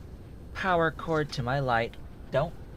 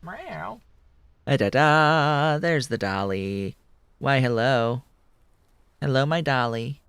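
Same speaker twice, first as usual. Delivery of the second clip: put-on baby talk to the cat. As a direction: fuss over the cat. Cooing to cat Dolly.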